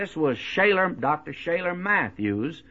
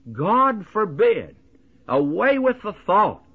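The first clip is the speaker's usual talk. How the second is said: emphatic denial; 6 semitones higher, 4 dB louder than usual. Acted. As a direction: banish the thought categorically, each phrase weighty. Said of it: "an emphatic and categorical denial".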